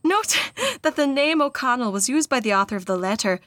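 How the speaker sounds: put-on Irish accent carried over into a note; attempted Irish accent, deliberate reading; mistaken Irish accent. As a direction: read the note in an Irish lilt. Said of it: "we're not in the letter anymore".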